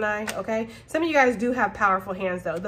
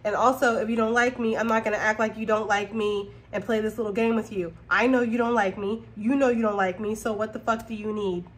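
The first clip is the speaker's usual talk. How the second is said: blunt, no-nonsense. Retold or imitated. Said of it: "you're gonna be like".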